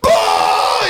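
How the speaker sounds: one big drawn-out burst, imitating a friend; hammed-up "oh" of hilarity; imitated belly laugh. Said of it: "belly laugh".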